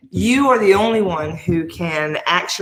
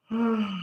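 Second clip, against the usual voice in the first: mock weary sigh; 9 dB quieter than usual. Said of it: "I'm yawning because".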